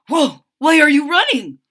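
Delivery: high, loud chirpy bird voices; chirping birds. A narrator's reading. Startled birds chirping at the running kitten. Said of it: "they chirp".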